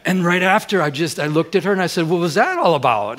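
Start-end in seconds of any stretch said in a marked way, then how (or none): 2.1-3.2 retold jealous demand. Retold jealous confrontation with wife.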